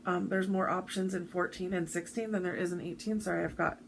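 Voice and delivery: blocked nose while talking; stuffy nose. Real, not acted. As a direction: speak through a stuffy nose. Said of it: "floss tube nose".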